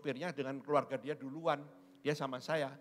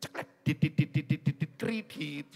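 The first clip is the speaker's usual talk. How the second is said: weak stuttering engine dits, slowing into kredit; mock a car coughing on credit; lightly voiced spluttering motor, drawn out at the end; sputtering car imitation; 6 dB louder than usual. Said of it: "Lain, punyamu".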